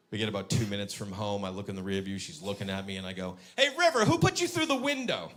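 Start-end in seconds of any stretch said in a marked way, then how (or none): 3.6-5.3 put-on high-pitched playful call to a child; teasing call. Dad to daughter near home, high teasing question. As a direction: bait her in a raised, high voice.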